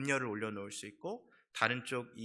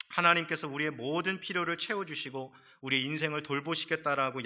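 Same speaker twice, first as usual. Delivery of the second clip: louder, rising preacher's build toward the point; fervent preaching; 3 semitones higher, 5 dB louder than usual. Acted. Pastor urging the congregation to trust God, fervent preaching. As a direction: press the warning home like a pulpit climax.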